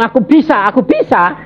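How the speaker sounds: high, cocky "Aku bisa"; mock boastful voice. Preacher mimicking a proud believer, high and cocky. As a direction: play the proud know-it-all. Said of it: "mocking proud self".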